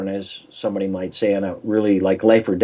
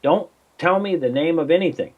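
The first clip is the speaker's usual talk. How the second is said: quoting himself; 5 semitones higher than usual. Retold or imitated. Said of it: "Well, she says".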